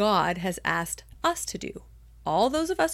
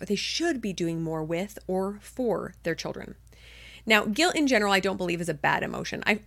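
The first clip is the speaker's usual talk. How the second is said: ordinary talk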